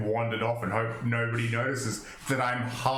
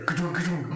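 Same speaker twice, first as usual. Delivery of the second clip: higher-pitched thudding noise; imitated giant footfalls; 6 semitones higher than usual. Player describing two giants running off, imitating thuds. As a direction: mimic heavy running steps in words. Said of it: "giants just go".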